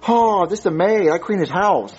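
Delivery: low, badly faked Hispanic maid; botched Hispanic accent. Dodging police as the maid, bad Hispanic accent. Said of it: "what accent was that supposed to be".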